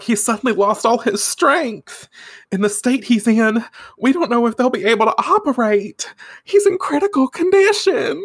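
high-pitched Southern lady in distress; tearful Southern woman. Acted. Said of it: "she wipes her tears because she's a Southern woman".

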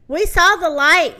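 sheep's loud alarmed report; yelled. Acted. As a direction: yell it out like a panicked witness. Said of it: "yelled the sheep".

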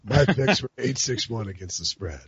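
lightly put-on gruffy recital; a hint of solemn spoken word, breaking into a laugh; low spoken-word voice. Podcast host reads a testy tweet, mock spoken-word voice. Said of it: "Can I read some Prisco tweets in that voice?".

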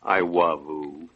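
put-on slow, low, babyish "I wavoo"; baby talk. Husband forced to say it to his wife, in slow baby talk. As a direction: coo "I wavoo" like an embarrassed toddler. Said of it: "I'll say it".

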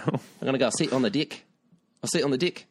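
mock New Zealand accent. Shown as a demonstration. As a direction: put on a joky Kiwi accent. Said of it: "given them a New Zealand accent".

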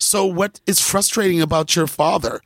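lightly voiced school counselor, carefully enunciated; a hint of prim teacher-speak; mock counselor. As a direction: gently probe like a child therapist, mockingly. Mimics private school counselling children.

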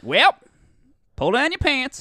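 high, loud brusque doctor; curt doctor order. Retold or imitated.

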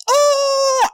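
high, loud, sustained banshee wail; mocking Banshee's flight scream. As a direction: let out a long piercing banshee wail. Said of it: "he just kinda goes".

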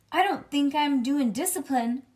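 put-on loud, high child's protest; not quiet. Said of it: "Oh, maybe, let's say it quiet".

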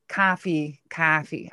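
"coffee" with a flat Minnesota "ah"; Minnesota pronunciation. Shown as a demonstration. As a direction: say "coffee" as "cahfee". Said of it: "I can't say it like anyway".

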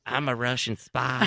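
hammed-up Russian spy voice; lightly faked Russian accent. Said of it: "Boris and Natasha".

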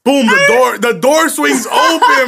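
slow, loud and dramatic. Retold or imitated. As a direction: slam it out big and slow. Dramatic moment the mom bursts in.

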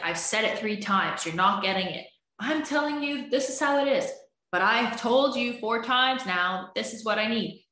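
high, exasperated insistence; you've said it four times, make them hear; frustrated repeating. Retold or imitated. Partner repeating a need nobody hears, exasperated and high.

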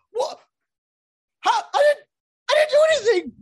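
very high, loud "I didn't do anything" whine; mock the caught-out person pleading innocence; whiny protest. People called out by police, childish high whine. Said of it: "we got people who just".

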